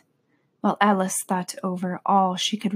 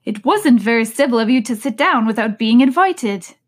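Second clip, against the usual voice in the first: retort; 3 semitones higher, 6 dB louder than usual. Acted. March Hare retorts.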